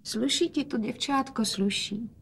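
father softly praising his daughter; speaking quietly. A narrator's reading. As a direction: say it gently, barely above a breath. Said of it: "hovořil otec tiše".

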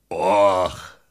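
low sighed och; a heavy dog's sigh. Acted. Big dog Hafan sighing for sausages, low. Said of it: "vzdychl Hafan".

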